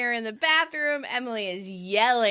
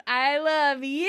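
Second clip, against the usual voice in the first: called back; 3 semitones higher, slower than usual. Retold or imitated. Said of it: "Ross reciprocates with".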